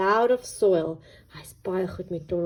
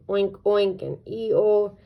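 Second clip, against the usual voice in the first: slow oink then donkey bray; drawn-out farmyard sounds; animal noises; 3 dB louder, slower than usual. Acted. Reading to kids, slow donkey bray. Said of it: "said die donkie".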